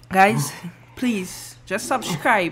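struggling through pepper heat; coughing, strained from spice; mouth burning from spicy food. Real, not acted. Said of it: "I feel like I'm about to pass out".

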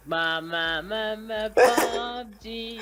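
syllable-by-syllable chant, climbing high; as if to a child. Shown as a demonstration. Gamer mock-explaining the game to a child, rising chant. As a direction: spell it out in singsong for a little kid. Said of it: "Çocuğa anlatır gibi".

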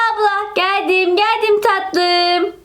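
slow, sung tender reassurance; sing-song reply. Acted. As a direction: croon it to the baby. Sing-song reply to baby sister. (ağlayan kardeşine şarkı söyler gibi seslenen abla)

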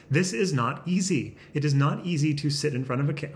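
insistent, emphatic protest; touch of exasperated yelling. Real, not acted. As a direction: press the point a little too hard. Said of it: "why am I yelling at the audience".

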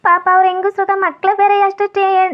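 put-on weepy begging; a mother's mild, overacted crying to win him over; tearful pleading. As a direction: plead as if close to tears. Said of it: "ನೀನು ಅಳ್ಬೇಡ ಕಣವ್ವ".

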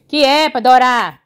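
slow, drawn-out question to the dog; slow pet voice; pet talk. Real, not acted. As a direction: ask the dog slowly in a pet voice. Talking to the dog.

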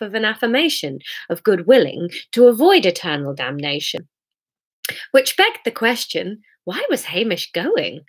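expressive storybook reading, lifting on the questions; measured narrator with lively pitch swings; story narration. A narrator's reading. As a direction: read it aloud as a wry tale. Reads story aloud.

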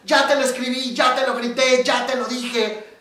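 high, loud exasperated outburst, slowing on the last line; exasperated wife. Retold or imitated. Wife to her husband at therapy, loud and exasperated. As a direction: burst out, fed up with repeating herself. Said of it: "la mujer se volvió loca".

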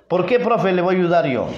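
a hint of a kid protesting to the teacher; teacher playing a pupil who doesn't want to help; reluctant pupil.

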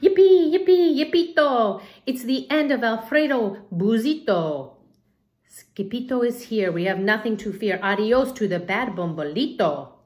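high, loud cheer that fades to chatter; high excited yippee chant. Acted. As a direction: whoop it like a joyful chant. Dogs cheer for the hero.

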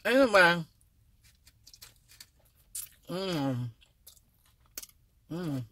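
humming while chewing food; mouth full, chewing. Real, not acted. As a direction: fingers at lips while eating. Seen 0: Hand at closed mouth, chewing stuffed food bitten earlier.

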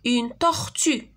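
slow, careful Une tortue; slow teacher model of tortue; slow model word. Shown as a demonstration. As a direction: say Une tortue slowly for the class. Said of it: "Très bien".

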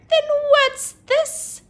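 high, slow, loud gotcha; triumphant accusation. Acted. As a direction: wave it in his face. Superhero accusing teacher.

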